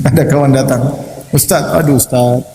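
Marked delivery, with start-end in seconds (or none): 1.3-2.4 high-pitched exasperated plea; complaining husband. Retold or imitated. Husband complains to the preacher about his wife's nagging, exasperated. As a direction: pour out a grievance, voice pushed up high. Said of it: "saya ini tempat banyak keluhan".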